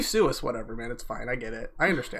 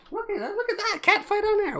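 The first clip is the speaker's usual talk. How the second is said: high, giggling excitement; laughing while pointing it out. Real, not acted. Laughing at cat fight.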